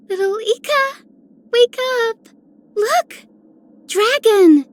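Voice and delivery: playful rousing. Acted. Playfully rousing little Ika.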